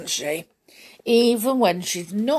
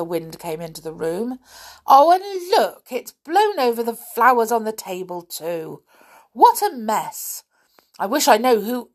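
cross scolding with loud bursts; 3 semitones higher, 5 dB louder than usual. Acted. Nanny finds a mess in the nursery, cross. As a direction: grumble and scold like an annoyed nanny. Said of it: "said Nanny crossly".

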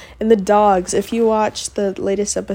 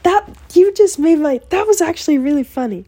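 louder, higher laughing compliment; a guy cracking up at her joke; amused praise; 8 semitones higher, 7 dB louder than usual. Retold or imitated. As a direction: say it like he can't stop laughing.

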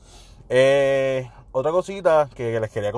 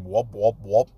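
imitando temblor; 3 semitones lower, slower than usual. Retold or imitated. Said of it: "como una gelatina cuando tú la mueves".

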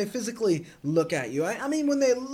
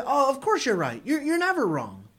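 sarcastic; 4 semitones higher than usual. Shown as a demonstration. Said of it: "you actually mean the opposite".

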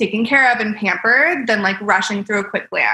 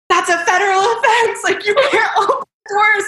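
much higher, laughing through the quoted scolding; laughing mock scolding; 11 semitones higher than usual. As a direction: giggle while imitating the angry staff. Retelling airport staff scolding her.

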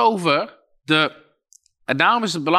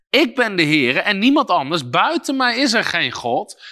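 emphatic voice of God; 4 semitones higher than usual. Shown as a demonstration. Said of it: "God zegt hier".

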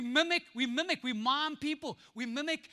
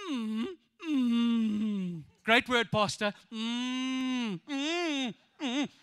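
lazy hums of agreement; mock mooing; much slower than usual. Mocking churchgoers humming at a sermon. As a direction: hum along like a cow. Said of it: "we go".

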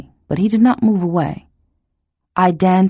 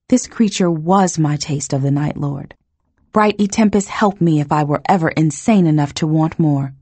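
ordinary delivery

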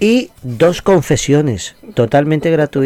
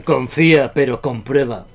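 show-intro tone; 4 semitones lower, 3 dB quieter than usual. Shown as a demonstration. Host opening his radio section on a colleague's request, show-intro tone. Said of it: "quiero que hagas ese tono de voz".

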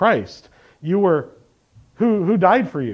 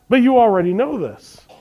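earnest appeal; 4 semitones higher, 3 dB louder than usual. Acted. Preacher voicing Jude to his readers, earnest appeal. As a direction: appeal with higher-pitched insistence. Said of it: "he appeals".

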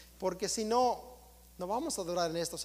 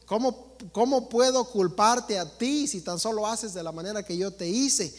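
voicing their God; 4 dB louder than usual. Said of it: "dice el Dios de ellos".

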